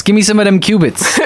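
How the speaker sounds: a hint of mock hip talk; mock hip Bible. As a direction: play a slangy Bible character. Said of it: "it's spelled D E M".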